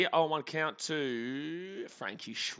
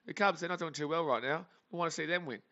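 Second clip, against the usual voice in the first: higher, mocking brush-off; dismissive Cubs fan; 5 semitones higher than usual. Cubs fan telling White Sox fans to hush, high mocking brush-off. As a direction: wave them away mockingly. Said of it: "And it was like".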